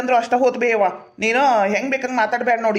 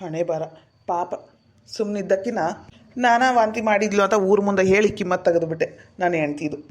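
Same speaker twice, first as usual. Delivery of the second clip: low-key regret, muttered to himself; rueful self-reproach; 3 semitones lower than usual. Acted. Husband alone, regrets shaming his wife.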